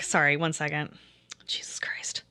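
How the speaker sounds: real under-the-breath aside, trailing away; muttered aside. Real, not acted. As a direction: drop to a low, near-whispered mutter. Aside while breaking off from stream.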